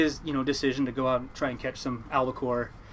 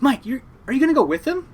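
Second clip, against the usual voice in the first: higher, louder retold confrontation; mom's challenge; 11 semitones higher, 8 dB louder than usual. Mom confronting the uncle at dinner, challenging. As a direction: put him on the spot as mom.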